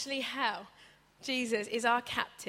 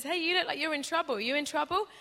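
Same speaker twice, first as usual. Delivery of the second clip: lightly voiced friendly boat, a bit higher; a hint of a helpful boat; 5 semitones higher, faster than usual. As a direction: call over kindly to a boat in trouble. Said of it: "another boat comes along and says".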